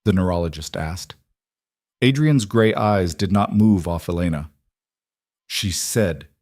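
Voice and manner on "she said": rasped. Acted. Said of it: "he rasped".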